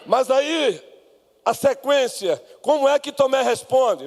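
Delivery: ordinary delivery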